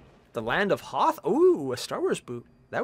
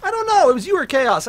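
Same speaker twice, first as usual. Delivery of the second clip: put-on baby voice; 10 semitones higher, 7 dB louder than usual. Baby voice after outburst.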